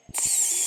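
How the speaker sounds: long hiss through the teeth; drawn-out s like a snake. Shown as a demonstration. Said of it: "multiple S sound like a snake".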